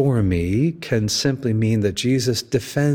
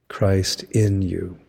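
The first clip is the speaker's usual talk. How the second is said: slow, "in" held long in "Christ in you"; stress on in; 2 semitones lower, slower than usual. Shown as a demonstration. Preacher answering Saint Paul's question, stressing "in". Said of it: "What did Saint Paul call".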